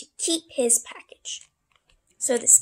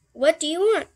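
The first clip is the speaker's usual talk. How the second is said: raised, loud questioning call; 5 semitones higher, 8 dB louder than usual. Acted. Mister Scaredy Cat questions the postman, calling out loudly. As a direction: demand it through the door.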